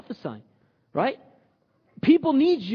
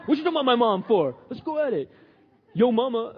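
quick, playful mock challenge; joking confrontation; 3 semitones higher, 3 dB louder than usual. Preacher jokingly playing the guy defending his mom, mock confrontation. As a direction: pick a fight in jest. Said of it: "No, I'm joking around".

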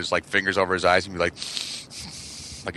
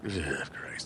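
exasperated groan; 4 semitones lower, 14 dB quieter than usual. Retold or imitated. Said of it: "I was like".

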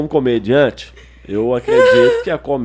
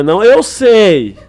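imitating mom; 7 semitones higher, 11 dB louder, much slower than usual. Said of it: "quando ela fala".

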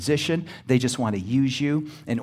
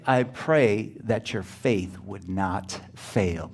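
slow, soft and tender; Jesus's words said slowly and softly; slow tender quote; 4 semitones lower, 4 dB quieter, much slower than usual. Retold or imitated. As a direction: read it like a gentle promise. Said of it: "What'd he say?".

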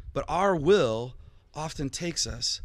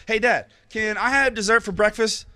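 put-on higher, louder eager child voice; pleading kid; 6 semitones higher, 6 dB louder than usual. Pastor imitating his child asking dad, high and eager. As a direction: beg like a kid at breakfast.

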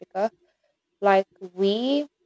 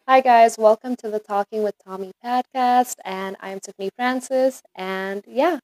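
lightly put-on American accent; 2 semitones higher, 3 dB louder than usual. Shown as a demonstration. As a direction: have a go at an American podcast intro. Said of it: "in an American accent".

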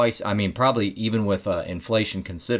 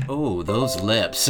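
dreamy swoon; much slower than usual. Retold or imitated. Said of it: "She goes".

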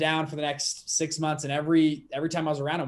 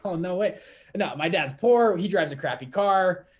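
higher and louder, in disbelief; incredulous protest; 3 semitones higher, 4 dB louder than usual. Retold or imitated. To the mentor, insisting his dad is poor, incredulous. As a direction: plead like it's obvious he's rich. Retold pleading with rich mentor.

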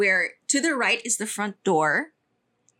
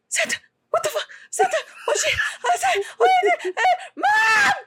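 high, frantic cries breaking into laughs; shrill, laughing panic at Santa in the hallway; panicked child; 3 dB louder than usual. Retold or imitated. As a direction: shriek it like a terrified kid who can't believe her eyes.

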